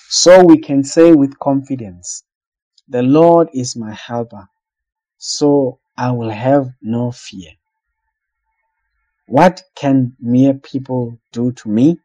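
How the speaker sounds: slow, deliberate reading of the verse; scripture reading. Acted. Preacher reading Hebrews aloud to the congregation, slow and measured. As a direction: read the Bible passage slowly, letting each phrase land.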